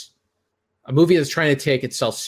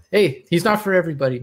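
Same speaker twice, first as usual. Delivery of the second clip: mock defence; 4 semitones higher, faster than usual.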